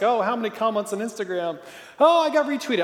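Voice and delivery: lightly mocking a social media show-off, rising high on retweeted; a hint of a preening poster; mock likes-chaser. Preacher mocking people trolling for likes, light smug voice.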